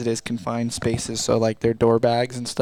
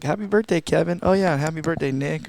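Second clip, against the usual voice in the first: higher-pitched imitated birthday shout-out; cheery mock greeting; 6 semitones higher than usual. Crew member imitating the running birthday gag, cheery mock greeting. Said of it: "we're like".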